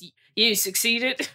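British accent attempt that slides toward Australian; failed British accent. Podcaster imitating the villain's farewell, shaky British accent. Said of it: "starts talking in a British accent".

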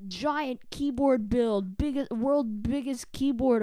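hammed-up clickbait title voice; mock video title. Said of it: "one of them's like".

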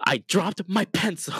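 lightly voiced, high sheepish excuse; mock whiny excuse. Mocking a friend's overreaction, sheepish whine. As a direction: make a small thing sound like a crisis. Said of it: "Carmen would be like".

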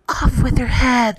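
prince's mock roar; roared order. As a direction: roar it out like a royal command, held back. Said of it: "the prince roared back".

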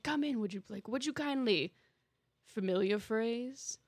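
lightly acted villain monologue; Andrew Ryan. Villain revealing the trigger phrase, restrained theatrical menace. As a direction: recite it as a knowing villain, with pauses. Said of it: "villainy role".

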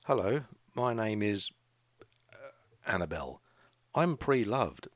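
a man playfully mimicking a girl introducing herself; mock prim introduction. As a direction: ham up a girl's overly formal self-introduction. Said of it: "if she spoke like that".

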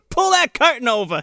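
cranky patient. Retold or imitated. Roommate character.

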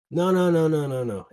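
loud retold objection, starting high; insistent refusal. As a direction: act out a friend waving away an excuse. Owner waves off his excuse.

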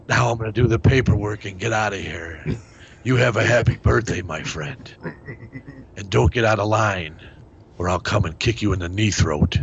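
Steven Seagal impression. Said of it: "It's Steven Seagal".

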